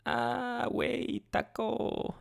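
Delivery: high, jokey put-on Spanish voice; playful mock Spanish exclamation; mock Mexican accent. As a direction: toss out a cheesy fake Mexican accent. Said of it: "Cries in Spanish?".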